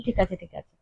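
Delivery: put-on softly, so the sleeping child isn't woken; half-whispered okay, okay; quietly repeated ঠিক আছে, kept low; hushed reply. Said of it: "আস্তে আস্তে কথা বলতে হয়".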